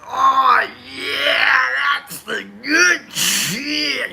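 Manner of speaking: excited. Real, not acted. Excited sniffing new tarot deck.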